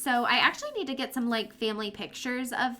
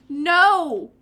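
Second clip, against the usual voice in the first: loud, high panicked pleas; frantic yelling; 7 semitones higher, 10 dB louder than usual. Real, not acted. Frantic at the Grim Reaper coming for her dog, loud and high.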